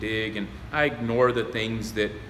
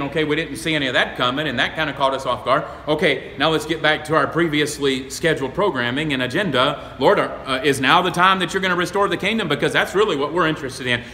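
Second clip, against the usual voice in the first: mock-impatient disciples, louder and quicker; 3 semitones higher, 5 dB louder than usual. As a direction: play the disciples eager to move on. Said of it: "and they're thinking".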